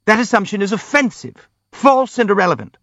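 high, squeaky indignation; high-pitched outraged protest; squeaking. A narrator's reading. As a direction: squeak it out, offended. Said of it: "squeaked Hippolyte".

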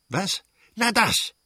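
high, outraged shout of disbelief; prince shouting. Acted. The old prince yells at his wife about their daughter, outraged shout. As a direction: bark it out in outrage. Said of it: "schrie der Fürst".

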